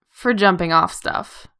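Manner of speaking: ordinary delivery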